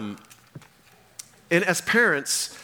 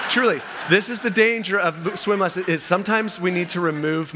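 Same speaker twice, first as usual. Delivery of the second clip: laughing; 4 semitones higher than usual. Real, not acted. Laughing at traumatized moms anecdote.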